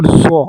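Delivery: زو said thick, with an emphatic voiced th; heavy letter. Shown as a demonstration. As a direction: make زو full and heavy. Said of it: "زو کو ہم نے موٹا پڑھنا ہے".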